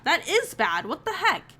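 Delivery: high, sharp what the heck; shocked outburst. Real, not acted. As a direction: blurt it out in disbelief. Reacting to bad friends.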